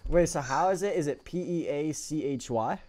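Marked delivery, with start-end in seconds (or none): 1.2-2.8 slow spelling. Real, not acted. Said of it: "spelling the name out".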